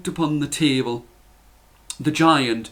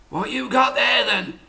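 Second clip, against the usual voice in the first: much higher voiced mother; mother's voice; 8 semitones higher than usual. A narrator's reading. Mother asking Jack what he brought home. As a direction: ask like a curious mother. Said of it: "his mother looked at him and said".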